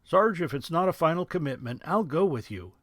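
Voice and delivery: high, loud eager GI; a keen young soldier. Acted. Rich voiced.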